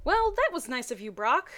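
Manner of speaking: reading the Pokemon fanfic dialogue with energy; voiced characters. Reading Brock and Misty's phone call in lively voices.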